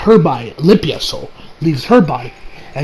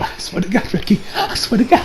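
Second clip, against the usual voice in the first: muttered under breath; 8 dB quieter than usual. Real, not acted. Muttered aside to Ricky.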